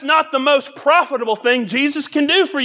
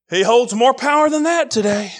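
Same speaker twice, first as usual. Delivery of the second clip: shouted repeat. Acted. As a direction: raise it to a shout on the repeat, punching "that". Repeats line, second time shouted.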